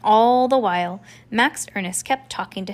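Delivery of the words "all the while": usual speaking voice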